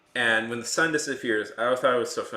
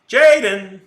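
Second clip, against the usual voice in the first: Jaden called out louder in a mock French-American accent, JAY-den stretched; calling the name like a French actor faking an American accent; 8 semitones higher, 15 dB louder than usual. Streamer mocking the French voice actor, loud French-accented call. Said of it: "they can't really do an American accent".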